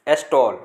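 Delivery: "स्टॉल" said estol with a long o; stall with o. Shown as a demonstration. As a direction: stretch the o in "स्टॉल". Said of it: "तो यहाँ पे देखिए ओ ओ लग रहा है". ("स्टॉल" में ओ खींचकर बोलें)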